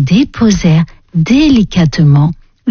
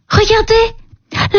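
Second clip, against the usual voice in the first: high, slow drawn-out call; a surprised princess stretching out the word; long high exclamation; 13 semitones higher, much slower than usual. Acted. Princess points at the basket.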